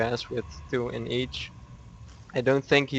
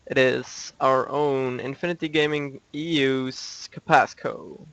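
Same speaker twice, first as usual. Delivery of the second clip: announcer introduction; 3 semitones higher, 3 dB louder than usual. Real, not acted. Esports caster introducing players to viewers, announcer style. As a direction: present each player like a ring announcer.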